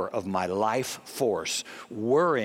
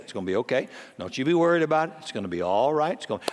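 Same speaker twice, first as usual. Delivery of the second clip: comforting daddy; faster than usual. Retold or imitated. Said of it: "every daddy here would say the same thing".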